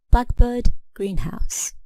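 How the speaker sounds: BLACK in blackbird and GREEN in greenhouse stronger, second part dropping; stress on first part. Shown as a demonstration. Teacher showing compound nouns, blackbird and greenhouse stressed on first part. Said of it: "the stress is on the first part".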